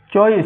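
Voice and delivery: चॉइस drawn out very slowly; slow model word. Shown as a demonstration. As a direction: stretch चॉइस syllable by syllable. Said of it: "चॉइस कह दो". (चॉइस को बहुत धीरे खींचकर)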